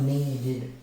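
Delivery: NEEDED slowly, as nee-did; needed with a careful final id; suffix demo. Shown as a demonstration. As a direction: draw out needed to show the "id" ending. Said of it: "Identify the sound of the suffix".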